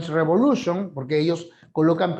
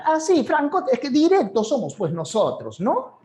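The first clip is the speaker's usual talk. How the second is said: much higher, sing-song Peruvian jungle lilt; Peruvian jungle accent; 9 semitones higher than usual. Retold or imitated. Teacher mimicking a jungle speaker for class, higher Peruvian jungle lilt. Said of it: "en la selva son así medio alaracosos para hablar".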